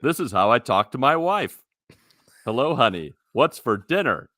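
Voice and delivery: lightly voiced announcer voice; a hint of a stiff announcer. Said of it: "I got my announcer voice on".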